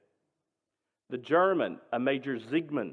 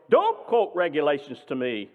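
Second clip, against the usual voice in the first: screamed; 5 dB louder than usual. Retold or imitated. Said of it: "the major screamed".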